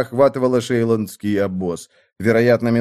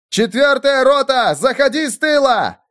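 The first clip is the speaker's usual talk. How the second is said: commander's shout; 11 semitones higher than usual. A narrator's reading. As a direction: call volleys like a field officer. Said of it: "кричал Эрвин".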